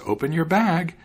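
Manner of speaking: cat keeps calling to the trapped fox. Acted. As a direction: call it again to the fox. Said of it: "the cat called out to him".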